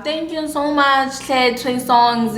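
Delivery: high, drawn-out retold thanks; gushing thanks. Thanking him for the drop-off in Bram, gushing thanks. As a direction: stretch out the gratitude sweetly.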